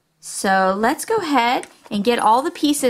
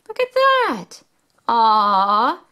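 delighted; slower than usual. Acted. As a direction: marvel at the owl. Delighted at owl.

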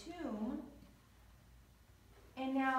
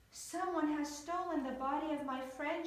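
usual speaking voice

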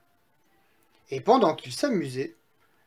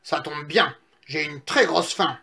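lightly voiced hungry wolf. Wolf smells little pigs nearby, lightly voiced greedy exclamation. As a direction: savour it like a hungry storybook wolf. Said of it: "le loup, qui passait par là, s'exclama".

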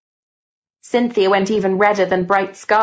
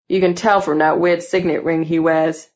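put-on lightly lowered boy voice; needling schoolboy; 3 semitones lower than usual. Gordon needles Cynthia about the teacher, lightly deep boy. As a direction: sneer a little in a deepened boy's voice. Gordon's voice, set earlier as bass.

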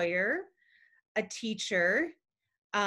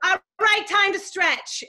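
raspy dance teacher; 10 semitones higher, 8 dB louder than usual. Retold or imitated.

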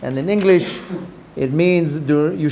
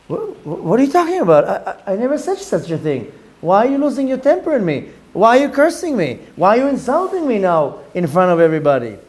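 stammering, lightly acted protest; bewildered. Levi facing Shimon's accusations, mildly bewildered. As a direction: protest in mild disbelief, pitch jumping up on questions. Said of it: "Levi עומד ומשתאה".

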